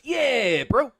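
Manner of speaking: high, loud bro exclamation; white dude. Acted. White dude in a comic answering the Asian dude, loud bro voice. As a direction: blurt it as a hammed-up bro. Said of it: "And he goes".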